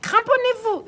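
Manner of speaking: high loud shout to hold on; grandpa yelling. Acted. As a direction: warn everyone, full voice. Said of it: "hurle grand-père Léo". (grand-père hurle de s'accrocher)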